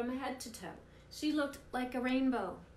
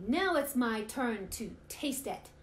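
slow, loud and eager; eager pig; 3 semitones higher, 5 dB louder, slower than usual. Acted. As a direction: relish the words, eager to eat. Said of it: "Pig was ready".

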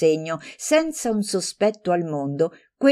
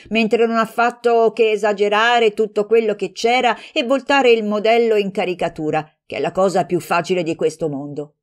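heated rebuttal; 4 semitones higher, 4 dB louder than usual. Acted. Heated quarrel between friends.

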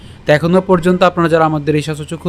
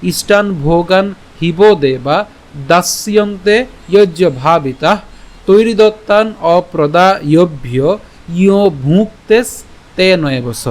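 careful recital, word by word; slow verse recitation; slower than usual. Shown as a demonstration. Teacher repeating the whole verse slowly for the class. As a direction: recite the full shloka slowly and evenly. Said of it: "আমি আবার বলছি".

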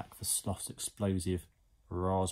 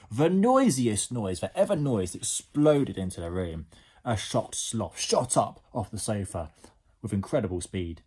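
lively storybook reading; animated bedtime-story narrator; story narration. A narrator's reading. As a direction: read it to young children with drama. Reads a story to children.

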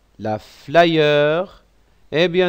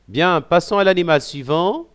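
ordinary talk, nothing marked

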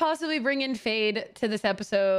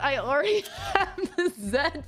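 laughing; 4 semitones higher than usual. Real, not acted. Laughs at owning it already.

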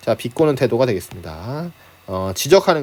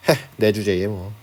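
mild scoff at yourself, pitched lower; self-mockery; 5 semitones lower, 4 dB quieter than usual. Shown as a demonstration. Teacher demonstrating self-mockery for students, mildly self-deprecating. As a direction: lightly act out a self-deprecating sneer. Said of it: "자기를 비웃는다".

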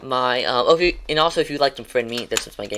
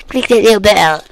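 "Click that little bell" belted much higher and louder; loud catchphrase; 8 semitones higher, 12 dB louder than usual. Shown as a demonstration. Streamer hamming up his sign-off, loud high catchphrase. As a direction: shout the catchphrase out big. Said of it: "I'm gonna say it like that every time".

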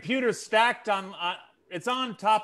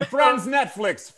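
put-on slow, higher comic Russian accent; mock Russian accent; 4 semitones higher, 4 dB louder, slower than usual. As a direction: announce it slowly as a Russian bot. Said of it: "your Russian accent".

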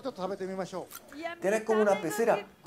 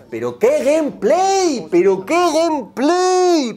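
high, loud, slow mock praise of gameplay; sarcastic shout; 8 semitones higher, 7 dB louder, slower than usual. Streamer sarcastically praises a menu as gameplay, high and loud.

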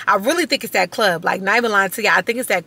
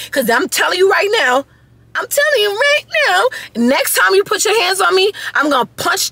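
retold threat; 10 semitones higher than usual. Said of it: "I told her".

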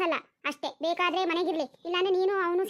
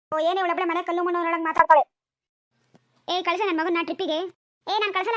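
angry quarrel. Acted. Mother quarrels with husband.

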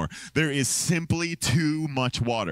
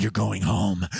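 lower, firm, playing the brave one; deep hero voice; 9 semitones lower than usual. Pastor retelling how he ordered Cassie home, deep-voiced. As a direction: put on a deep confident voice. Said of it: "my deep voice".

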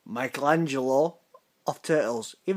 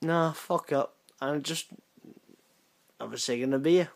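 softer, offhand brush-off; unbothered; 4 dB quieter than usual. Acted. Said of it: "And I'll be like".

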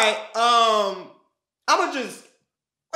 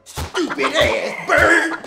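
laughing shout at the bird; much slower than usual. Acted. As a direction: yell it through a laugh. Chasing the chicken.

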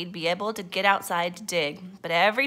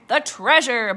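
loud, higher crew outcry; booming; 4 semitones higher, 7 dB louder than usual. A narrator's reading. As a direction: boom it out as a pirate crew. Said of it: "boomed the crew".

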